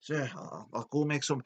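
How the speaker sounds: mock panic. Domo sent for breakfast by angry boss, mock panic. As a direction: stumble over a servile reply. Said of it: "he panics and he goes".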